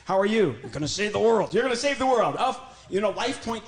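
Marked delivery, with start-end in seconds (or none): 0.6-1.5 loud eager puppet voice. Acted. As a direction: declare it like a proud puppet. Puppet declares.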